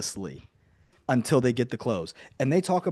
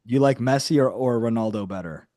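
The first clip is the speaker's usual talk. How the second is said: clearer repeat. Real, not acted. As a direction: say it again so he hears it. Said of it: "Excuse me?".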